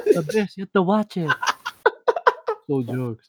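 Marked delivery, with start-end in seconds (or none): 0.1-1.3 imitated Filipino dad accent; playful Filipino-accented dad impression; dad's fob accent. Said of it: "That's how he said it".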